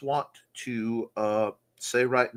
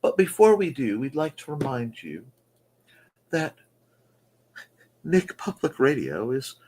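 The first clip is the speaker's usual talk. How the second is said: mock radio announcer.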